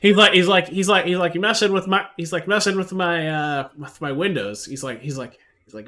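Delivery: loud ranting NPC. Acted. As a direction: bluster at the player like a grumpy dealer. GM voices ranting NPC Morris.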